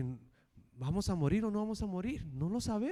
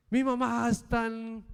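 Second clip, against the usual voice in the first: higher, distraught, on the edge of tears; upset tearful woman; 7 semitones higher than usual. Retold or imitated. Woman whose mother is dying confronting the salesman, distraught. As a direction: pour out her grief at him.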